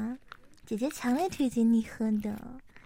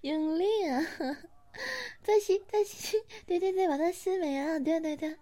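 excited urging; 5 semitones higher than usual. Acted. Urging listener to suck harder.

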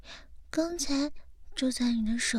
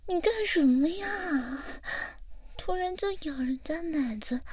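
startled squeal; 5 semitones higher than usual. Acted. Playful protest at being bitten.

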